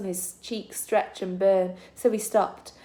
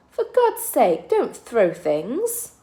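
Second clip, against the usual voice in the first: put-on pleading girl; 4 semitones higher, 4 dB louder, much slower than usual. Girl begs from the bushes.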